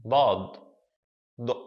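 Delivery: "Dad", then "d" alone, as heavy Arabic emphatic d. Shown as a demonstration. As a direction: demonstrate "Dad" with a backed, emphatic d. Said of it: "it's like an emphatic d".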